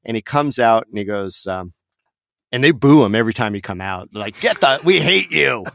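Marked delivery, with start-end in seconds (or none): 4.4-5.6 mock jeering crowd. Booing crowd in retold story.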